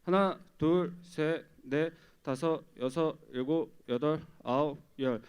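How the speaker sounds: steady rhythmic count for compressions; counting cadence. Shown as a demonstration. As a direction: call the beats like a drill instructor. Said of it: "제가 구령을 붙여드리겠습니다".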